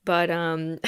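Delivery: ordinary delivery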